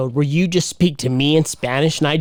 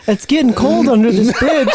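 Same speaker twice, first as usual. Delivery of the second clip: laughing mock pity; 4 semitones higher than usual.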